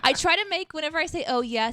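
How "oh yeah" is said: pitiful, warbling "Oh, yeah"; pathetic Bab voice. Shown as a demonstration. Streamer demoing Bab's pathetic catchphrase, warbling character voice. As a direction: say "Oh, yeah" as pathetically as you can. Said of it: "sound as pathetic".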